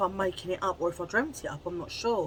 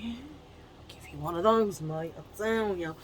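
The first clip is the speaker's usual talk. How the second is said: whisper. Pretend. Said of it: "I'll be like".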